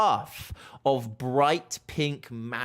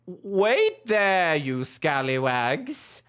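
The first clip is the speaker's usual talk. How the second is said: high, loud toad shout; calling out; 10 semitones higher, 5 dB louder than usual. Acted. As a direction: call them back, louder. Toad calls party back.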